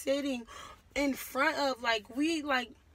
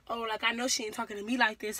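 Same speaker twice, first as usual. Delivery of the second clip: rowdy attitude; 4 dB louder, faster than usual. Retold or imitated. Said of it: "like, rowdy".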